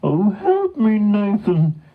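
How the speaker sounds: high cartoon cry for help; pleading cow. A narrator's reading. Stuck cow to the horse, pleading. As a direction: beg in a high, urgent storybook voice.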